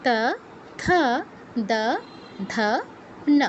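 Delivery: ত থ দ ধ ন isolated with long pauses; touch tongue to upper teeth for ত থ দ ধ ন; dental letter drill. Shown as a demonstration. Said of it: "আরেকবার বলে দিচ্ছি". (ত বর্গ, থেমে থেমে দন্ত্য উচ্চারণ)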